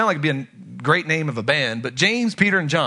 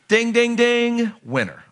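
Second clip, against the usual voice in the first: game show bell; 5 semitones higher, slower than usual. Pretend.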